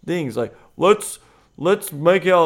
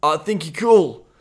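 mock choked-up stammer; 3 semitones higher, 5 dB louder than usual. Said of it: "you get choked and you're like".

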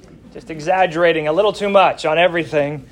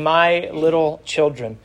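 tender, endearing; slower than usual. Shown as a demonstration. Old apostle addressing his young flock, tenderly. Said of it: "That's a very endearing term".

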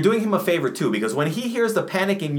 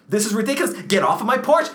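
raised, rising shout at the neighbor; first panicked order off the porch; panicked yell; 5 semitones higher, faster than usual. Acted. Panicked homeowner yelling at neighbor.

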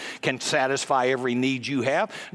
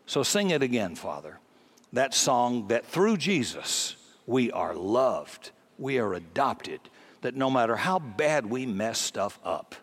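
prayer; 2 semitones lower than usual. Acted. Pastor leading the congregation in prayer, gently. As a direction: pray gently for the listeners.

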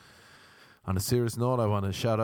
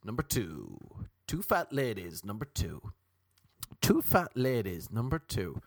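bingo caller; 4 semitones lower than usual. Pretend. Calling bingo numbers.

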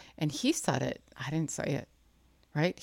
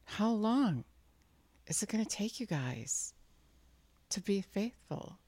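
higher-pitched, pained appeal; distressed; 5 semitones higher than usual. Acted. Jesus to his unfaithful followers, distressed. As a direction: plead with mild acted distress. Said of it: "he's distressed about that".

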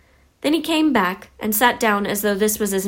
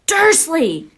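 high, booming yell; outraged bellow; boomed; 8 semitones higher, 4 dB louder than usual. A narrator's reading. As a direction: boom the name furiously. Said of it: "he boomed".

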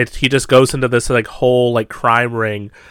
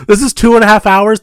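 incredulous; 9 semitones higher, 4 dB louder than usual. Retold or imitated. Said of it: "And I'm like".

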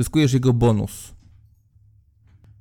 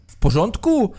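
high call from up top; calling down from above; 7 semitones higher than usual. Acted. Voice from above calls to the crew, calling out. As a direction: shout it down to the boat. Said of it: "takim tonem w stylu".

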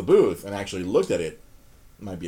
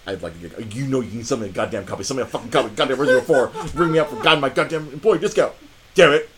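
retold exasperation; 5 dB louder, faster than usual. Retold humiliated customer demanding a copy.

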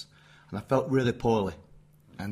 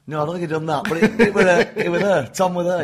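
laughing; 6 semitones higher, 9 dB louder than usual. Real, not acted. Laughing while telling Tom story.

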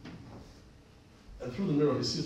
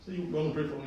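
smiling; 3 semitones higher, faster than usual. Retold or imitated. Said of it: "And I say this smiling".

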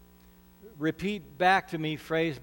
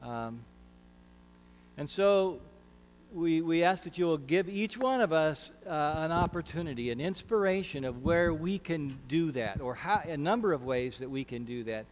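prayer. Acted. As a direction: pray it humbly, unhurried. Leads a prayer.

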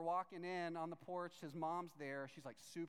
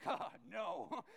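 alarmed shout; 4 semitones higher, 4 dB louder than usual. Retold or imitated. Caught out by Monica's question.

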